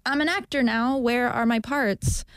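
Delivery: put-on high, slow old-timey announcer voice; old newsreel voice. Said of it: "your old-timey newsreel voice".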